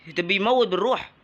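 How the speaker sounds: high, loud panicked shouting while swarmed; frantic cries under attack; panicked yelling. Real, not acted. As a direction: yell for them to back off. Overwhelmed by enemy attack.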